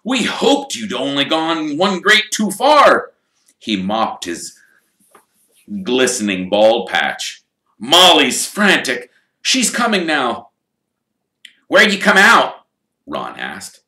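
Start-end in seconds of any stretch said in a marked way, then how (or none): 0.0-10.5 higher, louder, fretful father; relieved but worried dad; Mr Weasley's voice. Acted. Mr Weasley relieved to find Harry, in a lightly voiced fretful tone. 11.7-12.7 put-on high, loud boyish question; curious best friend; Ron's voice. Ron asking Harry where he came out, in a higher boyish voice.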